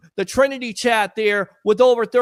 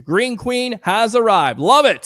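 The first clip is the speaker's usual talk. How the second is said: slow, loud announcer welcome; loud excited shout-out; hyped welcome; 6 dB louder than usual. Real, not acted. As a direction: greet her like a star entrance. Greeting arriving viewer with hype.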